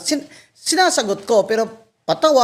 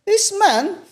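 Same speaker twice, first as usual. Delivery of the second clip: a higher-pitched mock appeal to the crowd; mock public appeal; 5 semitones higher than usual. Retelling how she called out the crowd at Rockwell, a higher-pitched mock appeal. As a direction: play to the bystanders like a rally speaker.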